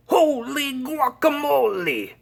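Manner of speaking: high, loud astonished exclamation; exclaiming. A narrator's reading. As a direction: burst out in amazement. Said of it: "exclaimed Skippy John Jones".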